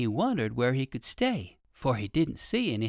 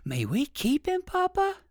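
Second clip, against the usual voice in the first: put-on much higher child's plea; pleading little boy; 4 dB louder than usual. A narrator's reading. Little boy asks his papa to keep the bunny, high pleading. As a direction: beg like a small child.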